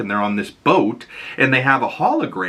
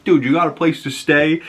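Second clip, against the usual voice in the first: much higher, casual worried question; concerned buddy; 7 semitones higher than usual. Retold or imitated. Havoc asks Polaris if she has a place to stay, higher and casual. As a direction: check on a friend, casually. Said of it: "He's like".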